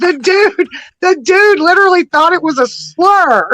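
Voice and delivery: can't believe the dude; excited disbelief. Real, not acted. Laughing disbelief, loud.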